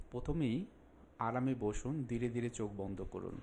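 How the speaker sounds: measured instructions with long pauses; unhurried meditation guide, phrase by phrase; guided relaxation. Acted. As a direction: calmly guide the listener into a breathing exercise.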